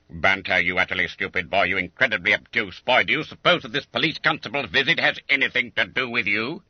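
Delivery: a master insulting a dense pupil; exasperated demand. Acted. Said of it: "demanded Quelch".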